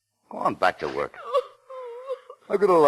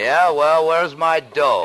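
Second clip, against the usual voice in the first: loud, much higher barked demand; angry demand; 7 semitones higher, 6 dB louder, much slower than usual. Acted. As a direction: shove the question at him. Demanding money in quarrel.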